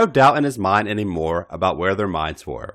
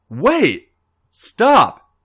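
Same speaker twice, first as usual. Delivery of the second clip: rising, louder cry to stop; uneven, needy cry; 11 semitones higher, 7 dB louder than usual. A narrator's reading. A J forcing the words out to Alex and Chris, uneven and needy. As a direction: blurt it out unsteady and pleading. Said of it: "his voice uneven and needy".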